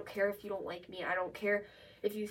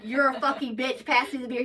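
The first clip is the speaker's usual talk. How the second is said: louder, plainly hostile-sounding demand; mock serious insult; 3 semitones higher, 6 dB louder than usual. Shown as a demonstration. Showing how he is not talking, mock-mean demand. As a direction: act out the mean version, louder. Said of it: "He's not being like".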